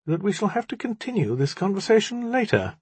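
high-pitched, measured formality; slow. A narrator's reading. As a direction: postpone it slowly and deliberately. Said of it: "the magician said slowly".

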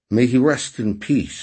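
weary. A narrator's reading. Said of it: "said Raspy wearily".

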